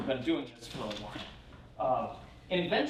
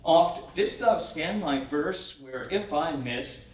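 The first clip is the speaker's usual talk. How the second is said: poem reading; 2 semitones higher than usual. Acted. Reads the Randolph poem aloud.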